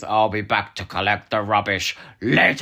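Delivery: hammy quote. Retold or imitated. Quoting a hammy line.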